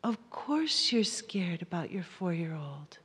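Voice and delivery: soft, hushed "of course"; gentle self-comfort. Shown as a demonstration. Parent soothing their own fear, hushed and gentle. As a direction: reassure yourself softly. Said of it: "say to ourselves".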